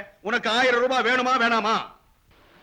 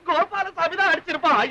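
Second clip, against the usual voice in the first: laughing with relief; 3 semitones higher than usual. Acted. Relief after hearing the telegram.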